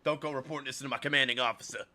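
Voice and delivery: gruff threatening soldier; military voice. Acted. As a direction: growl it like a tough sergeant. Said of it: "I love giving her this stupid voice".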